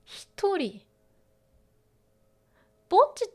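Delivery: high, loud, excited teasing of a new nickname; excited quote. Retold or imitated. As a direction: squeal it out like a delighted friend. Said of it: "here it is".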